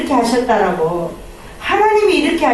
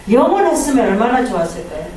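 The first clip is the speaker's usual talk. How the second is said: ordinary talk, nothing marked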